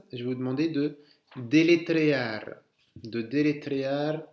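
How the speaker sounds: délétréar said the French way, each syllable flat; deletrear mispronounced. Shown as a demonstration. Teacher to class, word said French-style. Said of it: "Deletrear significa épeler".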